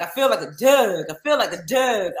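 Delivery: imitated boxer saying dog as "Doug"; Baltimore Doug. Quoting a hometown boxer's interview, Baltimore Doug. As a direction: punch "Doug" with a short uh vowel. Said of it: "He was like".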